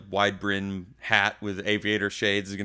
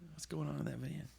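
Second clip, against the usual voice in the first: puzzled onlooker; 7 semitones higher, 15 dB quieter than usual. Retold or imitated. Onlookers' imagined question.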